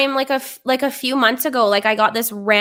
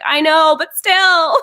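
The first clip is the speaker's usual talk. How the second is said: laughing whine; 6 semitones higher, 5 dB louder, slower than usual. Real, not acted. Admitting the comments hurt.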